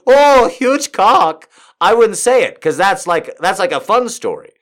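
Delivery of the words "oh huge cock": much higher, louder, very slow gushing "Oh, huge cock". Retold or imitated. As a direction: drag out "Oh, huge cock" with mock awe. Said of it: "if she went".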